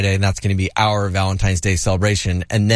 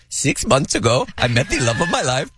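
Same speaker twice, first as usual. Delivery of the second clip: hammed-up teary quote; a touch of fake tears; mock tearful; 3 semitones higher than usual. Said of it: "He tearfully said".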